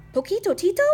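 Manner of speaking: high, loud, surprised question; exclaiming. A narrator's reading. Kitty boy recognizing his amigo, surprised exclamation. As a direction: call the name in amazement. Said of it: "exclaimed Scapito".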